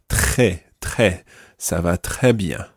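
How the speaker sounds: "très" with the French R after the T. Shown as a demonstration. Teacher models the difficult R for a learner, French R in "très". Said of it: "that difficult R sound in there".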